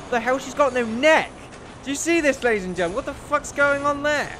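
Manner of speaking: loud, high disbelief; shocked outburst. Real, not acted. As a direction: yell it out in shock. Shocked at headless woman.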